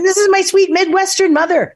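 high, stress on sweet; pointed hint. Retold or imitated. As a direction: lean on sweet to drop a hint. Pointedly introducing mom again.

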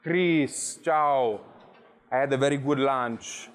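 a hint of the Italian friend calling out hello; Italian guest imitated. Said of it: "he goes".

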